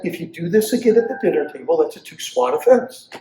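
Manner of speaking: calm, matter-of-fact warning. Retold or imitated. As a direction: state the rule evenly, no heat. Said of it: "very calmly".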